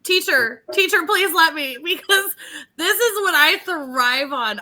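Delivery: excited, begging to speak; eager pleading. Real, not acted. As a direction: plead playfully like a keen student. Eager to take the topic.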